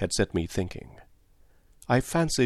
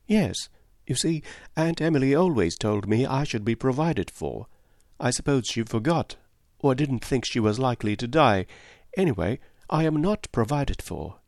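lightly voiced young woman, a bit higher; a hint of a lively young girl; lightly higher girlish Cynthia; 4 semitones higher than usual.

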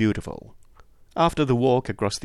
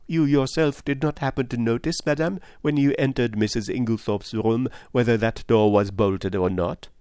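lightly voiced, polite questioner; courteous detective Poirot.

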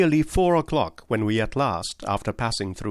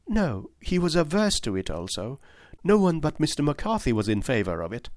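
put-on a touch higher, confiding young lady; lightly voiced young woman; 5 semitones higher than usual. Miss Turner confessing the quarrels to Holmes, lightly higher voice. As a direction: explain frankly, a little shy.

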